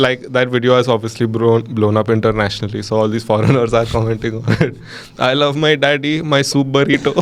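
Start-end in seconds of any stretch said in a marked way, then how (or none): 5.3-7.2 imitating a South Indian child's English; exaggerated South Indian accent, laughing at the end; mock bad accent. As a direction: garble "superhero" into "soup burrito", amused. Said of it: "the accent is really bad".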